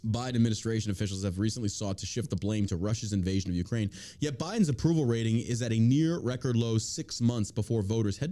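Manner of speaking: news read. Real, not acted. Reads news article aloud.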